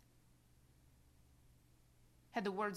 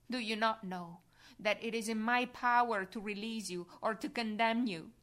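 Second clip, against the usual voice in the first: louder, commanding challenge; Pilate's threat; 5 dB louder than usual. Acted. Pilate warning the silent Jesus, loud and commanding. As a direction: assert your power over him. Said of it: "Pilate adds".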